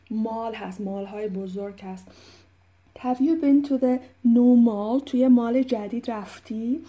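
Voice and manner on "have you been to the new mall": slow model question. Shown as a demonstration. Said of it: "repeating dialogue".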